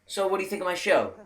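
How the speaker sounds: proud show boss. Retold or imitated. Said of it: "he was like".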